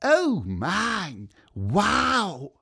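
high squeaky little bird voice. A narrator's reading. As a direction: chirp it out like an excited tiny bird. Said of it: "piepste er".

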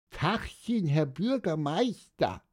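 small, high-pitched greeting; squeaking. A narrator's reading. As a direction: peep it in a tiny high voice. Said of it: "piepste Pieper".

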